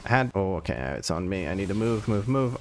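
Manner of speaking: flustered, stumbling stutter. Real, not acted. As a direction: trip over the words in a rush. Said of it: "I'm just stuttering all over the place".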